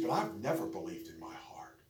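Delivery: soft, half-whispered retelling of a confession; hushed confession. Retold or imitated. Preacher retells young woman's confession to congregation, hushed. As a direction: drop to a near whisper, retelling her words.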